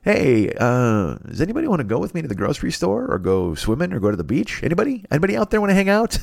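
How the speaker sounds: a plaintive call into an empty room; half-joking plea from an aging loner for company; lonely old man. Retold or imitated. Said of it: "it's gonna be".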